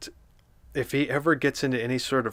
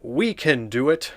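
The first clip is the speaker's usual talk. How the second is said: new SpongeBob voice. Acted. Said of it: "That's my new SpongeBob voice".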